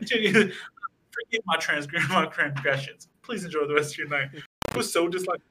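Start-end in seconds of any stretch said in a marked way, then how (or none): 0.0-4.3 lightly voiced, slow mock-formal apology; hint of a courtly gentleman; overly polite dealer. Mimicking the dealer apologizing in the bathroom, mock formal. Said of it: "such a polite transaction".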